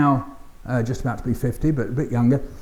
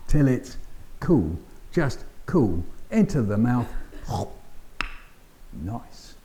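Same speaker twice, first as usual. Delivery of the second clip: soft, lower, slow performed poem; 3 semitones lower, 5 dB quieter, slower than usual. Acted. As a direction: act out blowing on hot potato. Repeating the poem's refrain.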